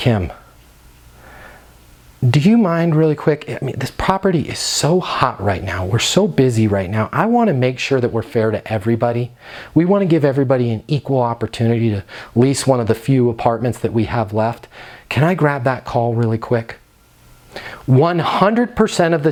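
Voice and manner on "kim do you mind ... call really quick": voice dropped and kept low. Showing how to speak to a coworker while a prospect listens: lowered voice. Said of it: "You lower your voice, you say".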